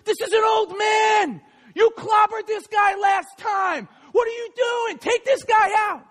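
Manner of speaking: high-pitched incredulous yelling; berating corner man, voice pushed up high; yelling trainer. Retold or imitated. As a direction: yell at your boxer between rounds. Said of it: "he starts yelling at him".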